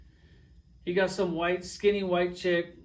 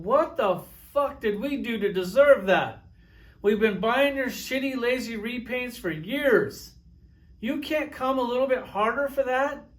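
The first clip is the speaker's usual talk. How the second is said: louder, higher, aggrieved complaint; indignant rant; 5 semitones higher, 3 dB louder than usual. Retold or imitated. Collectors complaining to the toy maker about the hell charger, indignant and loud. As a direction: vent like a betrayed loyal fan. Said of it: "We were sitting there going".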